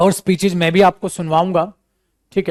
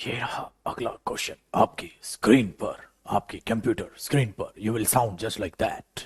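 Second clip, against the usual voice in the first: whispered announcer parody; 5 semitones lower, 6 dB quieter than usual. Retold or imitated. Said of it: "So ये नहीं लोगे".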